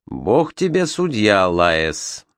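sadly passing judgment, understated; with sorrow. Acted. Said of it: "с грустью сказал секретарь".

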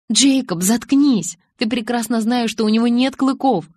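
high, loud, indignant scolding; irritated outburst. A narrator's reading. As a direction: shut him up crossly. Irritated retort in an acted quarrel.

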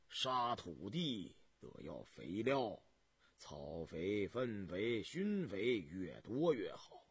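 lightly voiced old peasant, sighing start; unhurried old farmer explaining his fields.

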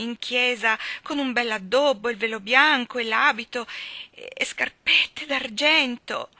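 put-on young woman close to tears, high and pleading; distraught young girl. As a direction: play Dovi as a weepy, overwrought young bride. Dovi's voice in story.

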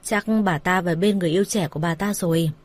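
understated, even and unbothered; calm. Acted. Father answering about missing woman, mildly calm. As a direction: say it evenly, as if unconcerned. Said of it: "Ông Thanh bình thản nói".

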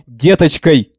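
repeated word cracking into a plaintive cry; voice breaking. A narrator's reading. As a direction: let the voice snap on деточкой, high and pitiful. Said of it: "голос высоко и жалобно обломился".

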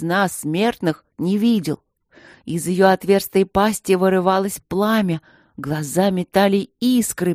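darkly ominous book reading. Acted. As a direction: read it like a ghost story. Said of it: "начал читать зловещим голосом".

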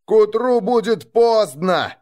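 громко и выше, с надрывом; выкрикнуть в отчаянии; выкрик. A narrator's reading. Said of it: "выкрикнул я". (рассказчик кричит на Велидагу, торопя отряд)

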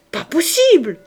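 very loud, high outburst; an enraged wife bursting out, loud and shrill-high; cried out. Acted. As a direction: explode with disbelief. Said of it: "s'écria-t-elle".

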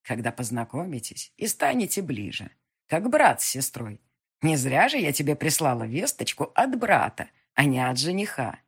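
put-on a wise old witch who sees all. Witch reassures the heroine.

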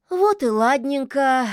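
loud, pleased witch; smiling. A narrator's reading. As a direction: say it slowly with a smile. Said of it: "улыбнулась ведьма".

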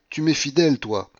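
loud and high, easing on last word; feverish adoration. A narrator's reading. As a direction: exclaim it with rapture. Delirious Paulina declares love.

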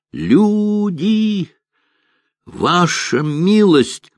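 high, slow, gasping cry; out of breath. A narrator's reading. Shoemaker running up gasping for breath, high breathless cry. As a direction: gasp it out after running. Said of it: "задыхался сапожник".

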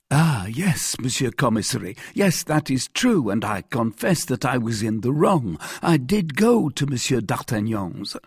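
high, anxious confession; contrite Bonacieux. Acted. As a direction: admit it humbly to the authority.

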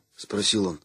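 plain reading voice

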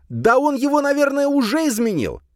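alarmed shout; exclaiming loudly. A narrator's reading. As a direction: Soliman crying out in alarm. Soliman keeps crying out.

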